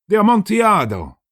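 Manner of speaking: high, loud astonished cry; astonished exclaim. A narrator's reading. Chained Fortunato crying out in astonishment. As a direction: blurt it out in shock. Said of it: "ejaculated my friend".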